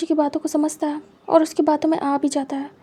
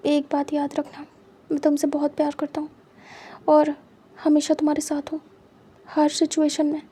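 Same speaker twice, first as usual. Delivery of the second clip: tender promise. Acted. Tender promise after forehead kiss.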